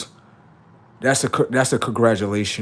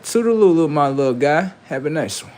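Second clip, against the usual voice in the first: mock goodbye; 5 semitones higher, 4 dB louder than usual. Mock farewell to someone on video.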